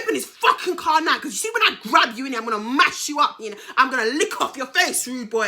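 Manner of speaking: loud, quick retold threat; acted angry threat. Woman retelling threats to her man, angry. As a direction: act out laying into him.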